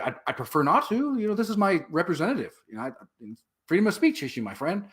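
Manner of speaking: lightly mock-reasonable protest; polite refusal. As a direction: politely stand your ground. Retold polite refusal to leave.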